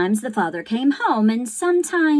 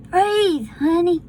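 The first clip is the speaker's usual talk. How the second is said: higher, louder desperate plea; pleading boy; 10 semitones higher, 6 dB louder than usual. Acted. Young Bryce begs his sister Sarah Ruth to breathe, pleading. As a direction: beg her to breathe.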